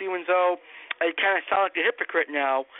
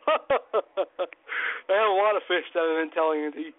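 laughing; 2 semitones lower than usual. Real, not acted. Confessing secret fish, laughing.

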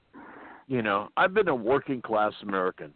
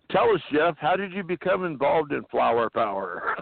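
Rolling Stone interviewer; 5 semitones higher than usual. Pretend. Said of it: "like a fucking Rolling Stone interviewer".

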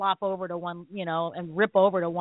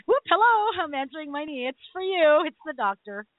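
high, sing-out comic phone greeting; playful high hello, dropping back down by the end; mock phone answering; 6 semitones higher than usual. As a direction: pretend to pick up a call, hammed up. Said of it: "like, answering the phone".

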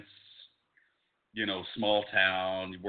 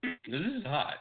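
burning mouth from spicy food; 6 semitones higher, much slower than usual. Real, not acted. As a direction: talk with a burning tongue. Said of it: "my tongue is on fire".

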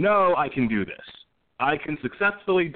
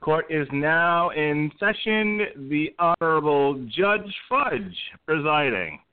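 bailiff; 5 semitones higher, slower than usual. Pretend. Opens show as court bailiff.

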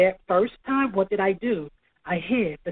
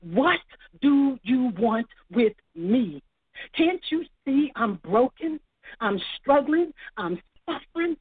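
high, pleading retold cry at God, no real volume; mock outcry, pitched up and drawn out; retold scream; 4 semitones higher than usual. Telling the interviewer how she screamed at God, a high retold plea. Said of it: "and I screamed".

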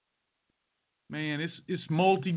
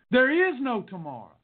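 urgent film-coach line, slightly raised; dramatic movie-line urgency; Rocky quote; 3 semitones higher than usual. Acted. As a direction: hammer it like a movie pep talk. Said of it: "It came from Rocky".

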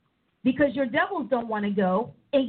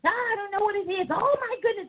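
higher, mock-crying complaint; mock whining; 7 semitones higher than usual. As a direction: fake a distressed whimper. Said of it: "blame coming into a real strong ministry".

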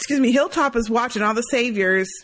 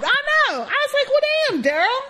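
mock surprise. Reacting to Daryl's jump scare.

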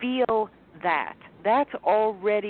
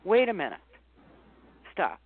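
calming self-talk; faster than usual. Shown as a demonstration. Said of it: "and then you say".

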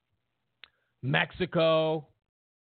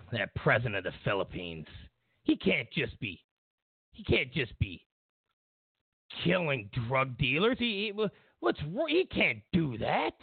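imitating Obama. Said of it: "he said".

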